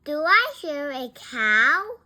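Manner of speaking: loud, high shouted question. A narrator's reading. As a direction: call out the question. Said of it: "Bean shouts".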